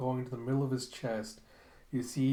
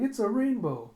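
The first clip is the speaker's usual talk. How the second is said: put-on much higher and louder little girl voice; excited small child; delighted child; 9 semitones higher, 5 dB louder than usual. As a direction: squeal it like a kid at play.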